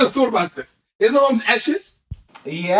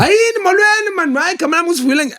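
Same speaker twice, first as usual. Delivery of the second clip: high-pitched mock black South African accent; exaggerated black South African accent for the crowd; put-on black South African accent; 13 semitones higher than usual. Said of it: "I put on a black accent".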